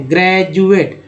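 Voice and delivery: ग्रेजुएट said with a ज sound; graduate with j. Shown as a demonstration. Teacher to class, giving the correct ज sound in ग्रेजुएट. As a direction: say ग्रेजुएट as "grejuate". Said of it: "ज का उच्चारण करेंगे".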